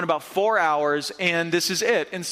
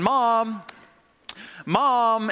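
retold yelling; 4 semitones higher than usual. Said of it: "like, yelling out of the hallway".

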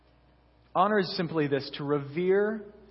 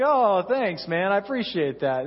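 put-on hurt young pastor hitting back with sarcasm; sarcastic thanks; 3 semitones higher, 3 dB louder than usual. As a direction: fake gratitude with a sting. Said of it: "I was like".

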